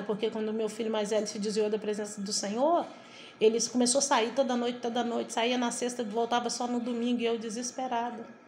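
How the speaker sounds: ordinary talk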